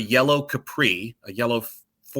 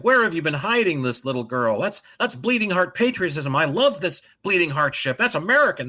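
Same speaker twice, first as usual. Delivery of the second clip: higher, pompous cigar-smoking tycoon; mock tycoon response; 5 semitones higher than usual. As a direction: ham up a smug corporate boss. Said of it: "plutocratic corporate fucking asshole response".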